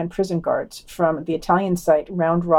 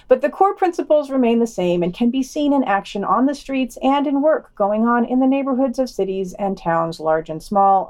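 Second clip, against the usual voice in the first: higher-pitched sneering read of the quote; mocking quote reading; 4 semitones higher than usual. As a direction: read it like you're mocking the author.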